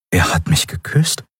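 mild disbelief, rising at the end; stunned question. A narrator's reading. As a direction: wonder at it, half asking. Stunned inner thought after kiss.

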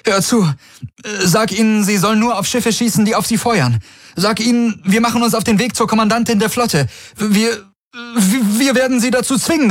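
very high, straining voice breaking over itself; commander's voice cracking with panic at the AI. Acted. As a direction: push the pitch until the voice cracks. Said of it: "Seine Stimme überschlug sich".

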